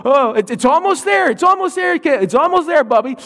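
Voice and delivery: put-on high, encouraging toddler; little girl voice. Toddler sister encouraging brother, high child voice. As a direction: cheer him on like a tiny sister. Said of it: "look at the toe and go".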